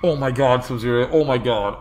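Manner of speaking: loud thrilled disbelief; excited shouting. Real, not acted. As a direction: shout it, overwhelmed with joy. Shocked by big gifted subs.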